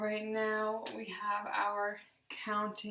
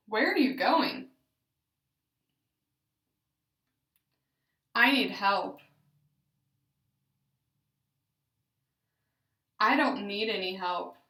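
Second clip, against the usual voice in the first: loud, clear practice phrases with questions rising; therapy drill phrases, loud and deliberate; deliberate, intentful; 8 dB louder than usual. Shown as a demonstration. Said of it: "use intent when speaking".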